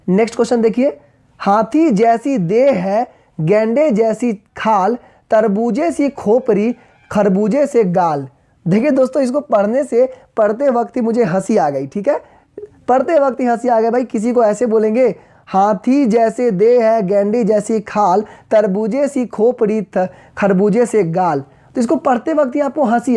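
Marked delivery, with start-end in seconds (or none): 1.4-8.3 slow verse reading, phrase by phrase; slow, drawn-out recital; poem recitation. Acted. Reads comic verse aloud. 15.5-21.4 slow verse reading, phrase by phrase; slow, drawn-out recital; poem recitation. Acted. Rereads comic verse.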